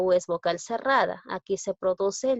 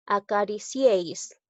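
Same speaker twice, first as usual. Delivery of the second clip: slow demo word. Shown as a demonstration. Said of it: "¿ve?".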